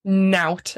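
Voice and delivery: "Nout" as one syllable rhyming with "out"; "Nout" said distinctly, final t sounded; Geordie word demo. Shown as a demonstration. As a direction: say "Nout" clearly on its own, like "now" plus t. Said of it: "N O W T".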